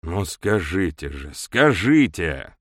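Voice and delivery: impatient urging. Acted. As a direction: press him, impatient. Hadley urging Fell impatiently. (нетерпеливо, требовательно)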